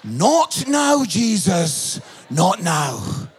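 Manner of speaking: firm rebuke falling low on "now"; imitating a fed-up wife, pausing between phrases; wife snapping. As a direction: tell the music player off, deliberately. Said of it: "turned to the music player and she went".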